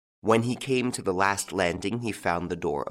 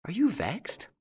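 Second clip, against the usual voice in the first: affectionate; 11 semitones higher than usual. Acted. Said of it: "in an affectionate voice".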